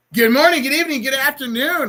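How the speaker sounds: very high, loud yelling. Podcast host opening the show, yelling into the microphone. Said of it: "yes, I'm yelling into the microphone".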